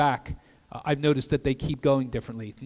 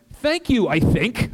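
doubtful thanks; 7 semitones higher, 7 dB louder, slower than usual. Retold or imitated. Own awkward reply, acted for laughs.

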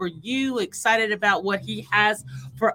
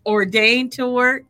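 fervent prayer; 3 semitones higher than usual. Acted. Prayer building to fervour.

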